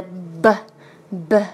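"b" sounded with voice, short and firm; voiced consonant. Shown as a demonstration. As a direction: voice the "b" clearly. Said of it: "b是浊辅音". (浊辅音“b”)

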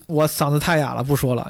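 speaking with a hoarse voice. Real, not acted. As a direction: voice worn hoarse from talking.

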